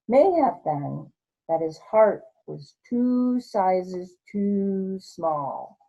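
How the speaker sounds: put-on slow, lively read-aloud for kids; story narration. A narrator's reading. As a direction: tell it like a bedtime story.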